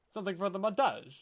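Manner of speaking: montage tipping into a mock Italian accent; too much Italian. Trying a line for the montage, overdone Italian accent. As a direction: lay a playful Italian lilt on it. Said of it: "too much Italian in there".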